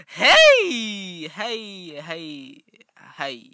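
big hello deflating; descending test greetings. Shown as a demonstration. Testing greetings, stepping down.

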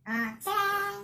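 high, sung-out flourish; playful ta-da. Pretend. Vlogger picturing everyone with good signal, playful flourish. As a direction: pop it out high like a reveal.

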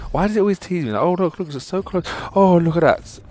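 high, loud outburst at a near miss; exasperated excitement. Real, not acted. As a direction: cry out as the prize slips away. Near miss on four-star pull.

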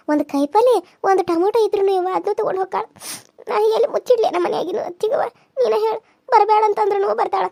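tearful complaint. Acted. Young wife pouring out her troubles to her aunt, tearful. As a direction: plead tearfully, voice wet with tears.

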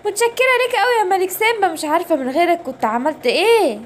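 grateful princess. Acted. Princess thanks King Simba.

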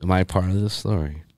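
unvoiced excited whisper. Real, not acted. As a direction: whisper it eagerly.

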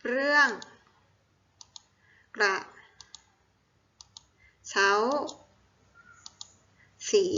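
each syllable alone, very long pauses between; syllable-by-syllable dictation. Shown as a demonstration. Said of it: "อ่านว่า".

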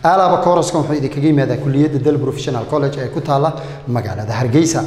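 brisk promo voice selling a course; ad read. Acted. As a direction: rattle it off like a radio ad. Ad read for a college. (xayaysiis degdeg ah)

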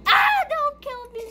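high, loud frightened begging; terrified plea. Real, not acted. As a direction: beg for your life. Begging enemy not to kill.

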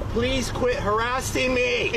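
yelling. Real, not acted. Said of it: "Why are you yelling?".

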